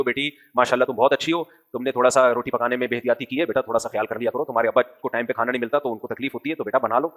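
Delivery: put-on a mother gently correcting her girl; a lightly voiced loving mother; gentle mother. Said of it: "بلکہ بیٹی سے ایسے بات کرتی ہو".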